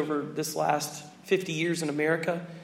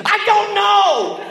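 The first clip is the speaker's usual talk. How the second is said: slow, high, laughing I don't know; high, drawn-out baffled reply; 13 semitones higher, 9 dB louder, much slower than usual. Retold or imitated. Pastor answering the young preacher, high and drawn out. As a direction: stretch it out in helpless bemusement. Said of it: "He looks at me and goes".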